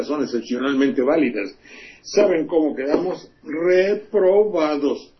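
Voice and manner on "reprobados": mock reporter verdict. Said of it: "ella dice que estamos reprobados".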